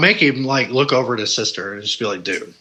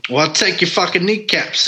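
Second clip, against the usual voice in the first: put-on Jersey accent; 5 semitones higher than usual. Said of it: "go to Jersey and you're gonna hear somebody talk".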